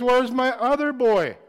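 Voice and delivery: loud, slow call for the missing son; father calling out. Retold or imitated. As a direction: call out slowly for the lost boy. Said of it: "And then he says".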